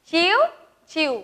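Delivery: sparrow chirp. Shown as a demonstration. Teacher answering how the sparrow calls, two separate chirps. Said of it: "पक्षी कसे ओरडते बरं".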